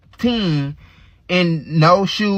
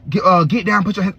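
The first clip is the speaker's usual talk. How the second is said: retold police command; 5 semitones higher than usual. Police officers ordering the bloodied teen to the ground, mock shout. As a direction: bark it like a cop with a gun drawn.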